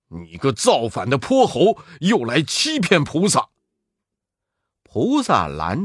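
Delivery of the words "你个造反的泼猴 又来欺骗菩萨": scolding. Acted. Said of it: "嘴里骂道".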